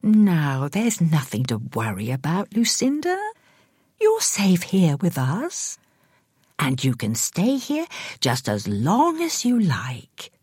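slow, hushed, gentle; soothing carer. Acted. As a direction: carer gently correcting the confused woman. Carer reassuring her.

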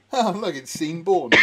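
slow, "Sean" said as seen; deliberate mispronunciation. Shown as a demonstration. Pretending to spot the actor, "Sean Bourne" as seen-born. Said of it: "I always call him Sean Bourne".

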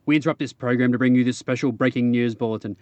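fast, urgent mock newsreader bulletin; grave 1940s war broadcast. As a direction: read it like wartime breaking news. Mock news bulletin opening.

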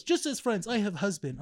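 emphatic mock Russian accent, starting high. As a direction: imitate a woman's firm Russian-accented English. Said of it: "it sounds like a Russian accent".

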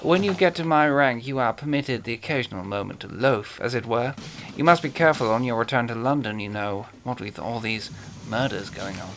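lightly voiced suave villain; a hint of a genteel British horror actor; Peter Cushing voice. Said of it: "Peter Cushing as Major Benedek".

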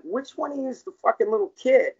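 high, loud indignant challenge. Retold or imitated. Father confronting foster father teasing his girl, indignant.

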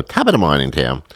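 Irish accent. Shown as a demonstration. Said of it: "That's my Irish accent".

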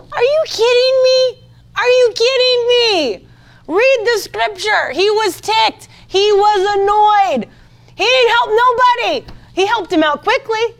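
high, loud preacher's outburst; incredulous shouting. Real, not acted. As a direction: erupt in indignant disbelief. Preacher erupts after mock-meek impression.

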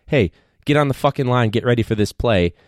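brisk instruction, not abusive; 코치의 단호한 지시; firm coaching call. Shown as a demonstration. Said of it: "There's a big difference between".

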